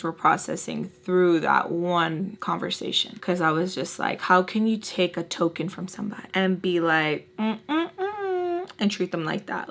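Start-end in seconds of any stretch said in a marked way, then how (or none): 4.2-9.7 crying. Retold or imitated. Tearful retold accusation.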